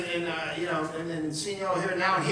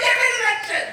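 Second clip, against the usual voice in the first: higher, louder mock yell; mock outrage; 13 semitones higher, 4 dB louder, faster than usual. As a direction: bark it out in fake disgust. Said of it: "I was like".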